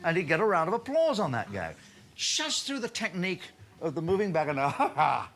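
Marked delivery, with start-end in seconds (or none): 4.7-5.3 승리감에 찬 짧은 웃음; triumphant laugh. Retold or imitated. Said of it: "the little triumphant laugh".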